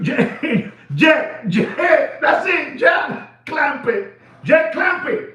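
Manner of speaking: high laughing calls of Jack; hollering at Jack through laughter; mock yell. Calling after Jack in a high mock yell. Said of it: "You told those people".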